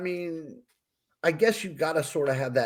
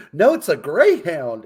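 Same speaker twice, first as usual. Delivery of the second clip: mild imitation of owner; 5 dB louder than usual. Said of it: "Like with the".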